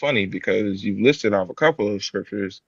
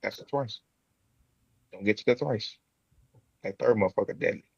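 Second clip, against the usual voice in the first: put-on African accent. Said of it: "You really have the African accent".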